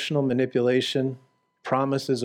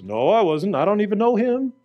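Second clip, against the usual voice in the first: louder, higher rushed denial; mock-panicked Peter; 7 semitones higher, 6 dB louder than usual. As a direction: deny it like you're cornered. Peter denying Jesus, acted.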